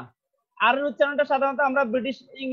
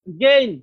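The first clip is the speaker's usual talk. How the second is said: "গেইন" hit firmly and louder; stressed syllable; 5 dB louder, much slower than usual. Shown as a demonstration. Teacher shows pupils where stress falls, stressed syllable. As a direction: put the weight on "গেইন". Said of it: "সাউন্ডটা একটু high হবে".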